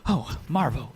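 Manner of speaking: a brute suddenly spotting Marvo. Acted. GM voices brutes greeting Marvo.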